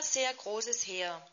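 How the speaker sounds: slow breathless whisper; awed whisper of a vast army; hushed awe. Acted. Climax of the vision reading.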